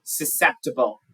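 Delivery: "Susceptible" said clearly as a lone model word; pronunciation model. Shown as a demonstration. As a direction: model "Susceptible" for a learner, falling at the end. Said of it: "How do I pronounce".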